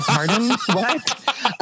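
playfully scandalized; mock shock. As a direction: act taken aback, pitch jumping on the second question. Acting shock at being refused boarding.

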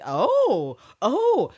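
high, drawn-out ooh; hammed-up impressed reaction; mock wounded oohs. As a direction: savour each "oh" theatrically. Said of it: "she sits in it a little bit".

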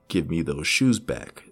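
calm, even reading of the quote. Retold or imitated. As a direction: read it steady and unhurried. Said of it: "She said calmly".

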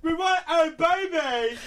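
high, loud, slow caricature voice; crude mocking impression. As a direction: drag it out in a loud put-on voice. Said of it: "Like, like, really bad".

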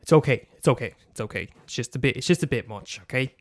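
soft, low, hushed voice; gently calm a colleague down; gentle reassurance. Acted. Gently calming colleague after outburst.

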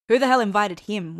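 mild angry outburst; annoyed partygoer. A narrator's reading. Partygoer glares and complains.

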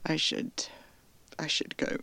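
soft, breathy, voiceless through tears; crying. Acted. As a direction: barely get it out while crying. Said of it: "And I'm crying again".

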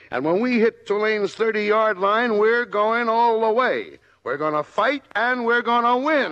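building, punchy fight talk; rousing pep speech. Acted. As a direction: fire up the dinner crowd. Coach's rallying promise to alumni.

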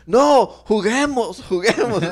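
high, slow, laughing plea; pleading for another game. Retold or imitated. Richards chasing the homeless man, pleading for another game. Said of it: "iba detrás del indigente diciéndole".

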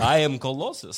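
low strongman voice; Colossus. Acted. Big hero introduces himself to the kid, in a low voice. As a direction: announce yourself low and ponderous. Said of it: "well, what are you?".

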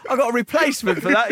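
mock gloating voice. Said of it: "he said".

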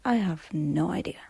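whisper. Real, not acted. Joking aside after accent.

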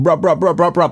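shouted gun-finger ad-lib. Retold or imitated. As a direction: fire off mock hype ad-libs. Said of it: "when you shouting out".

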